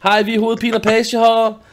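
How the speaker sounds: high, loud mock boy band greeting; peppy put-on boy band voice; boy band introduction. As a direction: announce the band like a pop idol. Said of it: "Det lyder som sådan en boyband".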